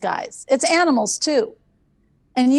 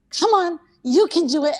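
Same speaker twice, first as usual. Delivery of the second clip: cheering the dog on; 5 semitones higher than usual. Retold or imitated. Encouraging dog on the stairs.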